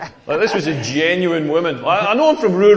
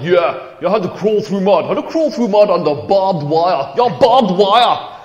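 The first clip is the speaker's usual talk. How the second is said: mock macho mate. Comic mocking his Tough Mudder mate, lightly voiced bragging bloke. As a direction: puff up like a proud mud-run hero. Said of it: "he's all like".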